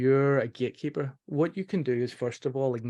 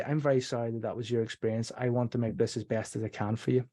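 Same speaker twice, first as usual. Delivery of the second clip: soft apology demo; 4 dB quieter than usual. Shown as a demonstration. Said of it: "So I'll say".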